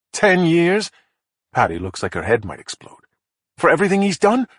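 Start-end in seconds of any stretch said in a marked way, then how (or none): 0.1-0.9 high, disbelieving rise on ten years; outraged disbelief, louder; incredulous. Acted. Patty outraged at the ten-year offer, incredulous. 3.6-4.5 pitched high in indignant disbelief; outraged disbelief. Acted. Patty protesting the killer's lenient deal, indignant high pitch.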